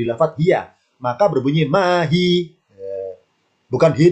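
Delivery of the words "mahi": "mahi" with no h after the hi; short hi. Shown as a demonstration. Teacher showing students the pause form without ha, short final hi. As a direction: say mahi ending on a short open hi. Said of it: "hi-nya pendek".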